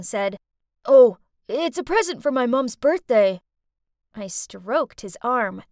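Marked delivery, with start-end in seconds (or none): 0.8-3.4 put-on bashful boy.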